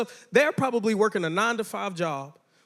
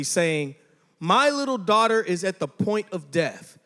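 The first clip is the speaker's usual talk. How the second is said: reading the Bible aloud to the youth group; steady, measured scripture reading. Acted.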